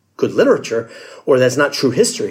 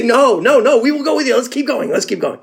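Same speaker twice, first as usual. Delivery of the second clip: mock weeping plea; 7 semitones higher than usual. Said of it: "And they begin weeping".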